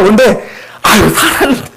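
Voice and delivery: slow, scoffing aside to God, half laughing at Him; a mild mock scoff, drawn out. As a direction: sneer at the promise as Abraham would. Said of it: "지금 비웃는 거예요".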